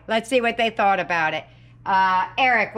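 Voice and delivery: normal talking voice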